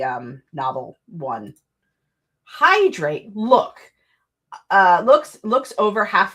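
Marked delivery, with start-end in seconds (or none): 2.4-3.8 louder, higher teasing order; mock command. Streamer echoing chat telling her to drink water. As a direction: bark it like a stern reminder. Reading chat's advice aloud.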